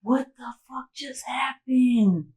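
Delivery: slow, high, whispered disbelief; stretched-out, breathy and stunned. Retold or imitated. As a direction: reenact shock in a drawn-out whisper. Acted stunned reaction to news.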